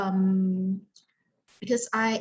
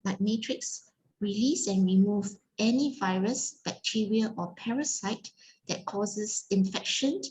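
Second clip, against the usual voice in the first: rhythmic incantation. Acted. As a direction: recite the healing command in steady rising cadence. Repeats a healing command.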